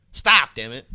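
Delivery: exasperated shout. Real, not acted. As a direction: yell it in exasperation. Exasperated rant about a rapper.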